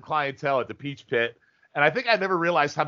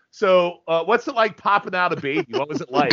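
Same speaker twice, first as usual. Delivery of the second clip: plain; 4 semitones higher, 3 dB louder than usual. Retold or imitated. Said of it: "He goes, uh".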